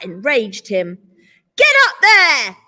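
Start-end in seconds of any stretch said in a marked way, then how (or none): 1.6-2.6 loud, high barked order. A narrator's reading. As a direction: bark the command at her. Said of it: "he ordered".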